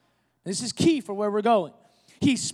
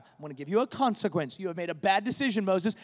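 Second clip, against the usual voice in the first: lower, softer stern-parent voice; parent scolding a child; 4 semitones lower, 5 dB quieter, faster than usual. Retold or imitated. Preacher voicing God correcting Moses like a child, low and soft. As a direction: quietly lay down the consequence like a disappointed father. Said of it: "like he's a child".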